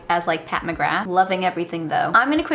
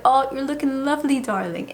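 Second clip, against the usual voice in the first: a lightly done posh British voice, gushing and raised; posh British darling; 5 semitones higher than usual. Retold or imitated. Vlogger imitating the makeup founder's posh British greeting, lightly done. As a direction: toss off a breezy British "darling" like a luxury brand founder. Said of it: "she has a British accent too".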